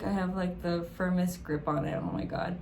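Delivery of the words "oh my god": breathy whispered wonder; soft awed whisper. Real, not acted. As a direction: breathe it out in awe. Still awed.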